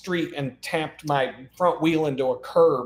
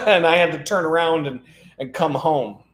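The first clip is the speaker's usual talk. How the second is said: laughing; 2 semitones higher than usual. Real, not acted. Laughing at failed trip.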